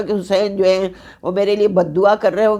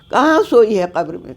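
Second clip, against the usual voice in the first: raised question. Acted. Preacher calls out the question to the mourners, raised. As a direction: cry the question out to the hall.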